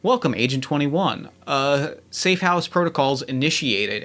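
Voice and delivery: flat, even system announcement voice; automated voice. Acted. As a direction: read it like a building's computer. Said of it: "an automated voice just says".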